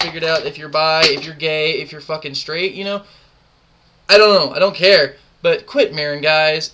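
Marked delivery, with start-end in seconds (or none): 4.1-6.7 much louder, fed-up and scolding; loud exasperated rant. Real, not acted. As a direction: blast him, fed up. Ranting at a clan member.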